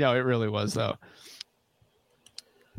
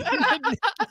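high laugh. Real, not acted. Laughing at own story.

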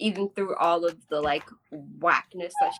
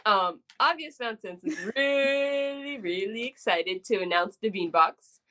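serious announcement; 2 semitones higher, slower than usual. Pretend. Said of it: "I'm trying to be serious now".

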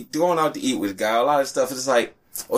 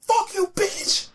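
high, slow, put-on snarl at a girl; mock spiteful insult; much slower than usual. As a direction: drag it out high like a sore loser. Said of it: "And I'm like".

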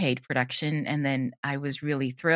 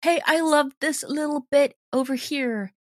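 high, bright mock fan voice; a high mock-gushing fan calling out; imitating an excited listener; 10 semitones higher than usual. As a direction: chirp it like a delighted listener. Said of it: "or people just going".

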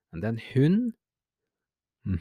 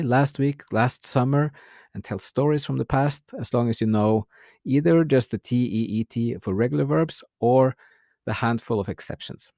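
ordinary delivery

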